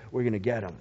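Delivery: low, soft, fast scheming threat; the wind as the big bad wolf threatening Peter. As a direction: growl it like the wolf at the pigs' door. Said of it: "the big bad wolf saying to the pigs".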